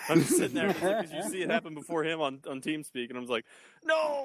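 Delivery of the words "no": high, drawn-out "no" of dismay; mock dismay. Player on TeamSpeak watching the queen die, mock dismay. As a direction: wail it in mock despair. Acted cry as queen dies.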